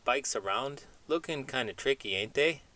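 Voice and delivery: chatty cartoon chimp dreaming big, not far from own voice; lightly voiced chimp. Chimp puppet chats with host.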